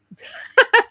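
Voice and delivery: a high, loud cackle breaking out; loud burst of laughter. Real, not acted. Reading a chat comment, she bursts into loud laughter. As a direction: let the laugh burst out at the screen.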